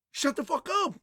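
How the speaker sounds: exasperated high, loud retort; Bernadette. Retold or imitated. Woman ordering him to stop arguing, exasperated. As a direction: cut them off, fed up.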